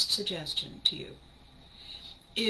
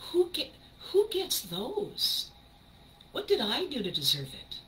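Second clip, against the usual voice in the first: amazed wonder; 5 semitones higher than usual. Real, not acted. Host marvels at her bonus days, amazed. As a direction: marvel at the gift of it.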